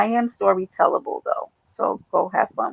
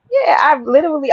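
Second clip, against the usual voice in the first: laughing outburst; 7 semitones higher, 4 dB louder than usual. Real, not acted.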